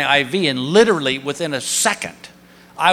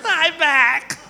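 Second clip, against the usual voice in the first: drugged giddiness; 7 semitones higher, much slower than usual. Retold or imitated. Drugged patient babbling.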